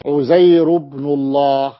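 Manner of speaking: slow demonstration of عزير ending in a bare -u; no tanween. Shown as a demonstration. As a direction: draw out "Uzayru-bnullah" with no nun. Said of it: "بدون تنوين عزير". (عزير بن الله ببطء وبدون تنوين)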